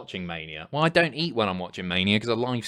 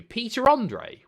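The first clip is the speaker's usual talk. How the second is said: drawn-out disbelieving question; incredulous; 10 semitones higher, slower than usual. Real, not acted. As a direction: stretch it out in disbelief. Incredulous at the suggestion.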